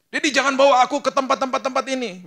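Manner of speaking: put-on high, loud child's plea; pleading child. A son pleading with his father, high and loud. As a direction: beg loudly like a little kid. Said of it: "Dia yang sebut disiplinnya".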